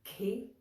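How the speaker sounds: "ki" set apart, lifted in pitch; pronunciation demo. Shown as a demonstration. Teacher isolating a syllable to remember, rising "ki". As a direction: sound out "ki" with a rise. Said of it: "things we want to remember".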